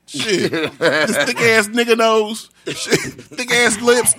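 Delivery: slow, stretched words; slow drawl. Real, not acted. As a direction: drag each word out slowly. Drawn-out thick list.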